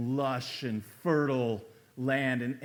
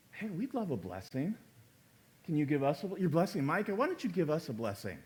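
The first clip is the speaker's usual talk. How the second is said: flippant; 3 dB quieter, faster than usual. Retold or imitated. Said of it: "it's so flippant".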